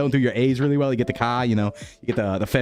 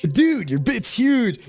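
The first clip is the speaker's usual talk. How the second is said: slow, high copy of the alert voice, far from his own; mock alert voice; 9 semitones higher, much slower than usual. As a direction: drag it out like the robot alert just did. Echoing the stream alert message.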